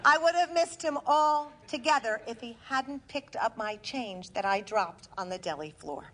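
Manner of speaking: deliberate stage delivery with measured pauses; comic storytelling to a live audience; theatrical monologue. Acted. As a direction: punch key words, then pause for the laugh.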